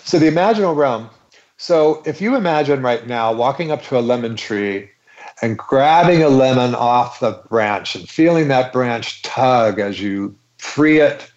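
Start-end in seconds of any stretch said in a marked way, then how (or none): 1.6-11.3 walk them through it gently; guided imagery. Acted.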